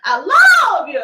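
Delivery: loud, high, laughing "I love you"; belted through laughter. Real, not acted. Reader laughing while belting the love line high and loud.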